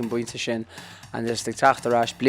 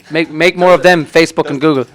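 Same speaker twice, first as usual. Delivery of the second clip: mock plea; 4 semitones higher, 11 dB louder than usual. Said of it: "calling out to companies".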